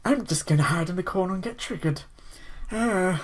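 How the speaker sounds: slow, hammed-up wounded whiner; mock the easily offended in a silly put-on voice. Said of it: "I don't know why I do that voice".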